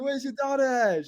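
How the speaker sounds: high, put-on Australian question; Australian accent. Salesman asking the dad for his daughter, Australian accent. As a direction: ask it as a pretend Australian. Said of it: "the Australian guy".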